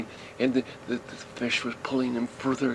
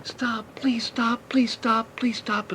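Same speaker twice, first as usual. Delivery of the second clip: put-on high, slow, hushed begging of a frightened boy; near-tears pleading; 12 semitones higher, slower than usual. Boy in the storm begs it to stop, high and tearful. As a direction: plead as if about to cry. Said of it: "he was almost ready to cry".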